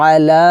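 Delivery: long-held final vowel on "আলা"; three-alif stretch. Shown as a demonstration. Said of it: "লাতে তিন আলিফ টান হবে". ("আলা"-র লা লম্বা টেনে)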